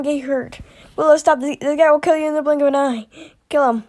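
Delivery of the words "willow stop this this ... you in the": urgent stop. Acted. Stopping a friend's attack.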